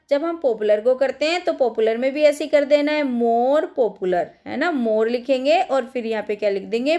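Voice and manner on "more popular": each word spaced out slowly for the class; slow dictation. Shown as a demonstration. Teacher to her students, slow dictation. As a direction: dictate it slowly so children can write.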